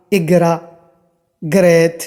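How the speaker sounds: "इगरा" and "ग्रैत" with a plain g; hard g. Shown as a demonstration. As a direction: say "इगरा, ग्रैत" with g, never throaty gh. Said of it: "ये गा से बोलना". ("इगरा, ग्रैत" गा से)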